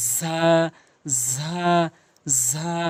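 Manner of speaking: ঝা as a drawn-out buzzing sound; tongue between the teeth. Shown as a demonstration. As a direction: hold ঝা with tongue tip at the teeth. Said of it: "দুই দাঁতের মাঝখানে লাগাবেন".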